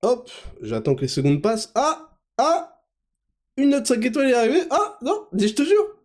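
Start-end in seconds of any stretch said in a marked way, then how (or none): 1.8-6.0 mock excitement. Mock excitement over a rating.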